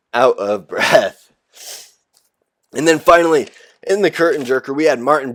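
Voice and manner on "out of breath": slow, laughing through the words; laughing repeat. Real, not acted. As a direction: drag it out with a laugh. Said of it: "I'm out of breath".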